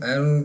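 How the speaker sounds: एल with a little vibration in the closing sound; slight vibration. Shown as a demonstration. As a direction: let the end of एल buzz slightly. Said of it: "थोड़ी सी vibration". (एल, थोड़ी सी vibration के साथ)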